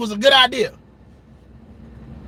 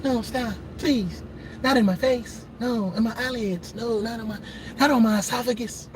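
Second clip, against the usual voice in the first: mock begging; 8 dB quieter than usual. Begging as victim.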